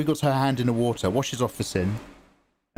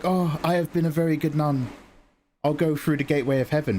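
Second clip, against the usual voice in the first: Italian nun; 3 semitones higher than usual. Acted. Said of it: "They're all Italian".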